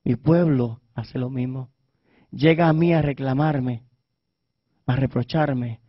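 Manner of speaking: soft and low, a quiet voice of God; God quietly lamenting his people, hushed and low; God speaking softly. Acted. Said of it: "Y Dios me decía".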